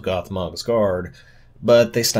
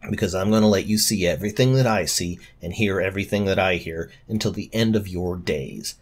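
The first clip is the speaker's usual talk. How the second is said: a hint of a menacing dark lord. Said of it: "There the Dark Lord said".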